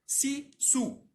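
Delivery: sílabas separadas, mais agudas, para o aluno repetir; devagarzinho. Shown as a demonstration. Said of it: "Eu vou div-, repetir devagarzinho". (bem devagarzinho, sílaba por sílaba)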